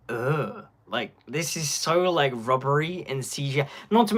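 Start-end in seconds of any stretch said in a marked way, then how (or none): 0.1-0.7 low, soft "ugh" of distaste; disgusted groan. Acted. Reacting to rubbery trailer shots, disgusted groan. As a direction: groan at something off-putting. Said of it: "where I'm just like".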